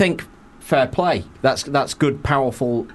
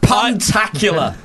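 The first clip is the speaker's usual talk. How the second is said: high, slow mock admiration; drawn out praise; 7 semitones higher, 4 dB louder, slower than usual. Real, not acted. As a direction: savour the word. Admiring the pun.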